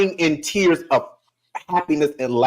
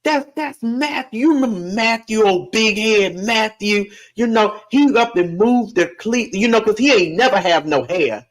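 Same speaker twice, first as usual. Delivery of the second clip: put-on much higher, a teasing old lady; great-grandma's voice; 6 semitones higher than usual. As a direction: show him off to a friend in a high, fond voice. Great-grandma telling a friend.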